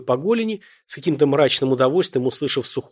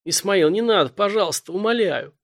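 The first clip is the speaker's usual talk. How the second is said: pitiful cry; 7 semitones higher than usual. Acted. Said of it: "жалобно вскрикнул парень".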